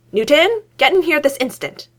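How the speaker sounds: high, loud urgent command. A narrator's reading. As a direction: summon him at once. Urgent calling for roommate.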